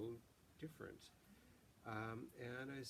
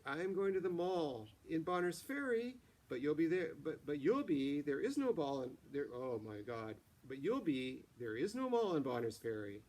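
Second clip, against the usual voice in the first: put-on much higher and louder, ditzy Valley girl rising tunes; Valley girl upspeak; 4 semitones higher, 8 dB louder than usual. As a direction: play a teen from LA who's hamming it up. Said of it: "But now you're doing upspeak".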